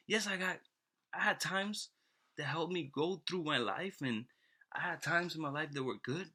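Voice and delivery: high-pitched, put-on weepy lament; mock uncontrollable crying. Man lamenting his life to God, mock crying. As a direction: wail it like a man in tears, hammed-up. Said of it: "this person started crying uncontrollably".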